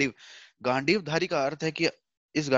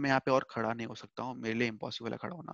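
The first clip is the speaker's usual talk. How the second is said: tearful plea; 2 semitones lower, 6 dB quieter than usual. Retold or imitated. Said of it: "अभी रोते-रोते ऐसा बोल रहा है भगवान से हाथ जोड़ के".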